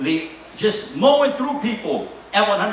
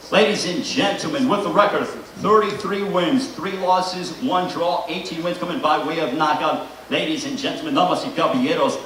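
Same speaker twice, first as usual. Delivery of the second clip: lucha libre announcer; 3 semitones lower than usual. Acted. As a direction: announce the fighter, stretching the name big. Fighter intro, ring-announcer style.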